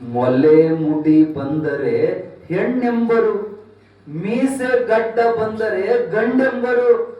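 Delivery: slow, measured recital of Akka Mahadevi's verse; recited vachana. Acted. Preacher reciting Akka Mahadevi's vachana to the crowd, slow and measured. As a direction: intone the verse slowly and with reverence. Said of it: "ಅಕ್ಕ ಮಹಾದೇವಿ ಹೇಳಿದ ಮಾತು".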